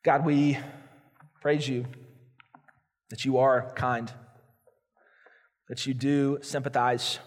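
closing prayer, earnest and hushed; pastoral prayer. Acted. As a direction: pray over the congregation gently.

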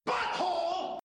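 high squeaky Butthole through a laugh; squeaky catchphrase laughing. Pretend. Host laughs while yelling the running gag squeakily. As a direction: giggle out the squeaky gag word.

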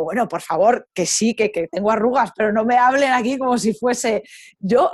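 playful mock protest; light flirting, half joking; flirty joking. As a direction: tease them like you're flirting. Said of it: "encima tonteando".

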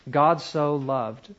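slow, with "loved" drawn out; stress on LOVED. Shown as a demonstration. Teacher showing how to meditate on a verse, stress on LOVED. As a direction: linger on the word "loved". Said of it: "emphasize love".

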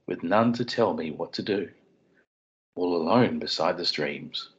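a father's gentle bedtime reading; bedtime story voice. Pretend. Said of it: "dad putting the kids to bed voice".

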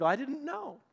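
high, rising 'oh' of realization; mildly acted surprise, pitch swooping up; surprised realization. Churchgoer hearing a friend's confession, surprised.

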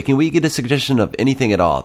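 improv host. Retold or imitated. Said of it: "but you say".

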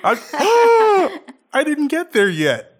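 gasp, then a high, loud outcry; hammed-up horror at the spoiler; mock shock. Learning his character dies, hammed-up shocked gasp.

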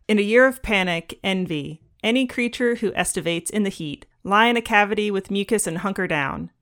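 measured poetry reading voice; poem reading. Acted. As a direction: read it like a poem, unhurried. Reads a poem aloud.

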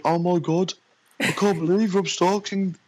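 high-pitched imitation of astonishment; mock disbelief. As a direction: act out a coworker's stunned realisation. Coworker's reaction after Googling, acted.

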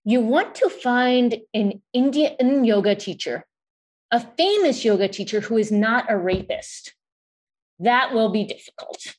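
put-on Indian accent. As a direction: mimic an Indian mother gently. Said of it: "says in an Indian accent".

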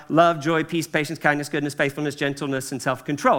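memorized list, reeled off quickly; rattled off fast. Real, not acted. Pastor reciting fruits of the Spirit from memory, rattled off fast. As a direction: run through the list without stopping. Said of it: "If I don't say 'em really fast".

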